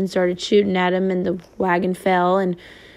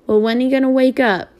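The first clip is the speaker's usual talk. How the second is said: put-on a child asking through light tears; tearful cry; 5 semitones higher than usual. Crying boy asking his brother about Papa, mild tearful higher plea. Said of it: "cried Christopher John".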